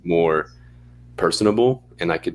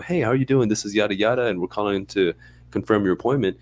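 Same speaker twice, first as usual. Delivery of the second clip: plain phone voice; 4 semitones higher than usual. Retold or imitated. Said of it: "I pick up".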